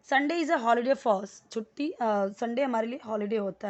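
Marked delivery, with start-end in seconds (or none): 0.0-1.5 very slow, each word set apart; slow model sentence. Shown as a demonstration. Teacher reading the example slowly to the class. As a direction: read it slowly for learners to copy. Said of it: "repeats model sentence".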